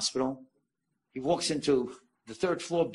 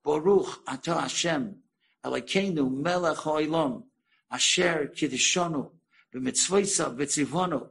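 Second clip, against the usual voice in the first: slow, measured recitation, phrase by phrase; retold Hebrew blessing. Mother recalling a blessing from her youth, slow recitation. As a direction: imitate someone reciting a remembered blessing slowly. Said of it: "she starts saying in perfect Hebrew".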